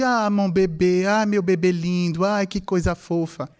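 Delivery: tender cooing to a pet, a touch fuller; baby-talk the dog lovingly, half-performed; affectionate dog talk. Retold or imitated. Owner fondly coos to his dog, mild affectionate baby talk. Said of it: "quand je me sens affectueux".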